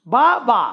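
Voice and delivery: বা বা as two clearly separate beats; split into syllables. Shown as a demonstration. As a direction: give each syllable of বাবা its own push. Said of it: "এখানে দেখো দুটো ঝোঁক". (বাবা শব্দটি দুই ঝোঁকে ভেঙে বলা)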